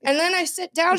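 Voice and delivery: ordinary delivery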